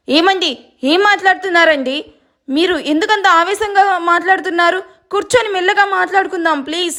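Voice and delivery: pleading wife. Acted. Wife begs her angry husband to sit and talk calmly, pleading. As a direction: coax him to calm down.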